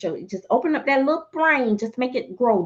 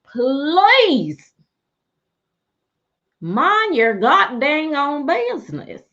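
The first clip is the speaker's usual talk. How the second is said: fed-up telling off; 2 semitones higher, 4 dB louder, much slower than usual. Acted. Telling off the doll police.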